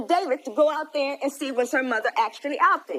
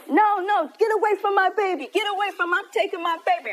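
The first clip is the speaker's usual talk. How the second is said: retold shout; 6 semitones higher than usual. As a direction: yell it like grabbing the baby back. Rachel grabbing baby, retold.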